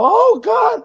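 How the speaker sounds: high shouted cry of relief; relieved cry. Retold or imitated. Mother on the floor crying out to God in relief. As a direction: throw it up to heaven in relief.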